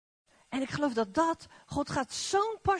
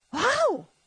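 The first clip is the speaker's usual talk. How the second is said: awed wow; 7 semitones higher, 4 dB louder than usual. Acted. Awe at God's work.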